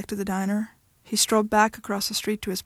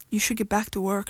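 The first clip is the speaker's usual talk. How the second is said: flat, emotionless. Acted. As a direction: say it with no feeling. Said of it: "she said flatly".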